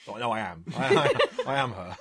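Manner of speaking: giggling through the words; laughing insistence. Pretend. Imagined actress insisting, laughing.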